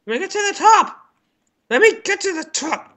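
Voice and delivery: high, strained plea; high pleading shout. Real, not acted. Gamer begging the mice to let him up, high pleading shout. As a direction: beg to get through.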